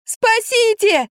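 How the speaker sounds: very high, slow cry for help; trapped in the dark, yelling for rescue; terrified yell. A narrator's reading. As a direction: howl for rescue in terror. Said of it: "завопила я, холодея от ужаса".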